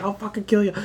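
high, growling monster threat; Godzilla voice. Retold or imitated. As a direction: snarl it like a giant monster. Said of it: "Godzilla's like".

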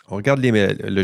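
mid-sip, mouth half full; words right around a swallow of coffee; while sipping a drink. Real, not acted. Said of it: "j'ai pris une gorgée". (en prenant une gorgée de café)

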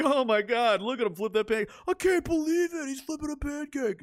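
high, gushing awe over a flipped pancake; mock amazement. Fan gushes at the premier flipping a pancake, mock amazed. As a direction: overplay wonder at something trivial. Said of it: "You'd be like".

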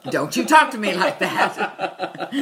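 slow, laughing mock yell; laughing imitation. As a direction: say it while cracking up. Repeating Angela's line laughing.

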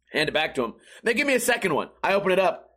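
ordinary talk

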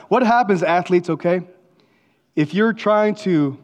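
rising, emphatic pulpit challenge; booming motivational speech. Acted. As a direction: push it out to the athletes. Preaching to athletes.

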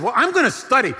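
loud, high, fed-up declaration; exasperated announcement. Retold or imitated. Fed-up student telling his lovestruck roommate, loud exasperation. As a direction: cut through the chatter, exasperated.

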